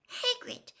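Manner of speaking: breathy, out-of-breath call; breathless. A narrator's reading. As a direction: gasp his name while hurrying. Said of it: "said Hermione breathlessly".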